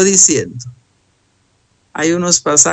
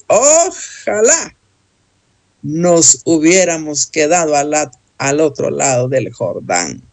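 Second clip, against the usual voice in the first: wistful cry of Ojalá; exclamatory reading. Shown as a demonstration. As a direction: read with exclamation marks. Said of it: "en la otro signos de admiración dice".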